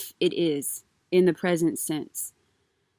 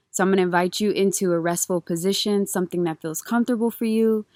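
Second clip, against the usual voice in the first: calm grounding exercise. Acted. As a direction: ease them gently into breath. Leads a grounding breath practice.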